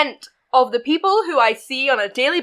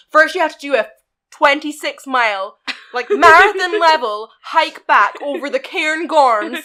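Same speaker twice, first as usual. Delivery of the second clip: exaggerated mock demand; 2 semitones higher than usual. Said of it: "act like I'm saying".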